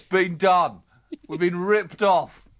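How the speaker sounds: drawn-out sulky grievance; mock indignant whine. Mocking the church's complaint.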